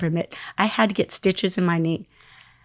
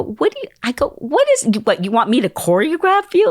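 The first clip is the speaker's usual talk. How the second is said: squeaky high disbelieving question; retold surprise; 5 semitones higher than usual. Dancer asking the singer if he wants choreography. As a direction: pitch it way up in disbelief.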